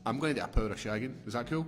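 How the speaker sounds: quick, offhand husband voice asking permission; mock Will Smith. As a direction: rattle it off like a casual request. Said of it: "That's just like Will Smith's like".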